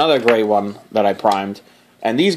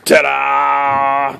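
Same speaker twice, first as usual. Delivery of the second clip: ta-da. Acted. Unveiling his model.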